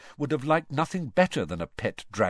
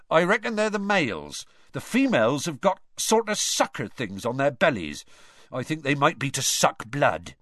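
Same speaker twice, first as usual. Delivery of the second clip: Hagrid voice; 6 semitones higher than usual. Acted.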